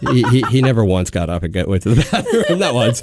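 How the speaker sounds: chuckling through the words; laughing. Real, not acted. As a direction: laugh while telling it. Laughing at a singer's stamina.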